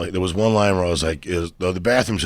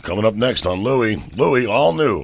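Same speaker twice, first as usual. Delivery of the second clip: TV promo voiceover; 4 semitones higher, slower than usual. Shown as a demonstration. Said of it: "When I used to do the voiceover".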